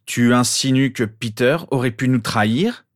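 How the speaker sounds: menacing. A narrator's reading. James challenging the boy about his friend, menacing. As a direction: press the accusation hard, with threat. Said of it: "d'une voix menaçante".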